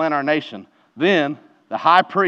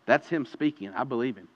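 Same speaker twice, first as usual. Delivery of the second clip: quiet surrender; 4 semitones lower, 9 dB quieter than usual. Pretend. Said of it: "are you willing to say".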